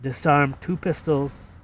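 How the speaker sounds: Boston accent with R dropped in "fired"; lightly done Boston accent. Shown as a demonstration. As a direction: rhyme "fired" with "justified", Boston style. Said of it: "that's a Boston accent, right".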